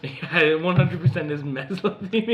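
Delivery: high, loud joking certainty; mock certainty. Real, not acted. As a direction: overstate it like a sure thing. Joking certainty after laughter.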